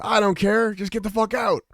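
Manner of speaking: mock husband. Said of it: "And he says".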